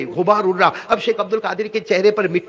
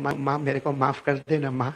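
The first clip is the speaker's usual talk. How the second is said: soft apology; 4 semitones lower, 6 dB quieter than usual. Retold or imitated. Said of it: "کیا کہتے ہیں".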